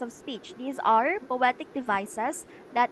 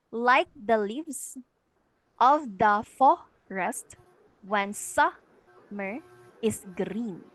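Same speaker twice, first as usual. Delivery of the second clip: very slow verse, landing on "leaves", "for", "sum" and "green"; slow metrical reading of "like the leaves of the forest when summer is green", weak-weak-strong; anapest stress; 3 dB louder, slower than usual. Shown as a demonstration. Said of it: "while the last syllable is stressed".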